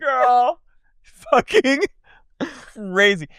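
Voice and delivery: high mock voice. Echo imitation.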